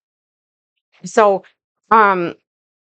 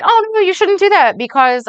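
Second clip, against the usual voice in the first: high-pitched mock fretting; put-on high-pitched objection, mockingly; nagging inner mind; 11 semitones higher than usual. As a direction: mimic a worried, scolding inner voice. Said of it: "in comes your fucking mind that's been programmed".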